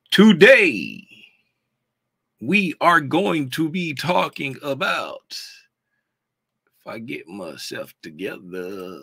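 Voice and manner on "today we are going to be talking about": slow, deliberate announcement; announcer intro. Real, not acted. Streamer introduces today's topic to viewers, slow announcer intro. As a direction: open loud on the first word, then stretch it out.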